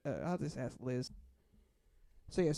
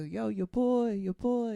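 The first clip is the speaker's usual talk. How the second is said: lightly imitated drunk, raised pitch; slurring drunk; 6 semitones higher, 4 dB louder, slower than usual. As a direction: play a tipsy guy calling out insistently. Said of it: "kinda slurring his speech".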